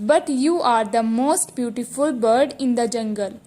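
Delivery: slow dictation reading. Shown as a demonstration. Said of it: "teacher reads the sentence slowly".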